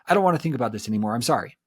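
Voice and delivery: quick, impatient shrug of a sorry; dismissive brush-off. Shown as a demonstration. Partner hurrying a hollow sorry to end the fight. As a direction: rush it out to end the talk. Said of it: "it's my way of saying".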